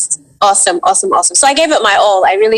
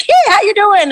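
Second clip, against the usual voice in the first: high, welcoming mock greeting; really warm voice; 11 semitones higher than usual. Actor imitating the voice greeting her at the callback, warmly. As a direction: imitate a warm hello, pitched way up. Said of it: "I heard this really warm voice".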